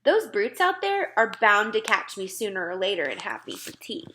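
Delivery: a hint of a small girl; plain girl's voice, worried; lightly voiced Sophie. Frightened girl telling the giant her fear, lightly voiced. Giant fears being caught.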